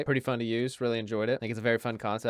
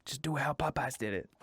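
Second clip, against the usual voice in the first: executive voice; 3 semitones higher, 5 dB quieter than usual. Retold or imitated. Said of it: "KFC looking at each other in the boardroom".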